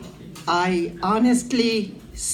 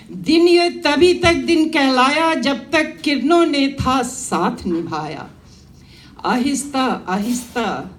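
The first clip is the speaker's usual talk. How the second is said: measured verse recitation with pauses between phrases; declaimed Hindi poem; poetry recital. Acted. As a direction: recite to a gathering, lifting repeated lines. Recites her own poem.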